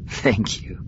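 soft, tender thank-you; quiet thanks. A narrator's reading. Wife thanking Han for the delay, quietly. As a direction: say it softly, just for him. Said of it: "quietly squeezing his hand".

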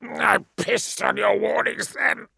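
high, slow contemptuous snap; snapped back. A narrator's reading. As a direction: bite back at the ruler. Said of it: "the captive snapped back".

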